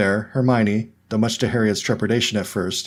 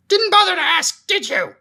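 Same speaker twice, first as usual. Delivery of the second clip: much higher, louder ghostly wail; ghost yelling back; 4 dB louder than usual. A narrator's reading. Ghost Myrtle yelling back at Ronnie. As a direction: wail the jab back at her. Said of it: "Myrtle yelled back".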